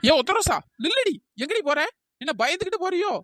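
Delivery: taunting call. Acted. Taunting rival mid-quarrel.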